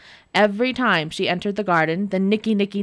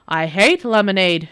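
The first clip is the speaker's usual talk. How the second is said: shouting; 5 dB louder than usual. Acted. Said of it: "shouted the devil".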